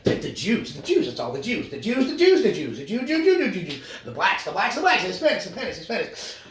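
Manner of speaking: hammed-up bigoted chant; mock bigot rant. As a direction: parody a relative's bigoted rant. Mocking a bigoted relative.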